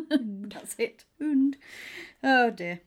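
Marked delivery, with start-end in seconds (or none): 1.2-1.6 "Hund" said high and loud through laughter; laughing Swedish word. Shown as a demonstration. Learner laughs at her tiny vocabulary, high and loud. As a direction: proudly say the one word. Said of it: "I know hund is dog".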